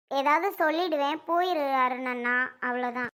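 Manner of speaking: sullen warning. Acted. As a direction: warn him off under restraint. Warns brother off during quarrel.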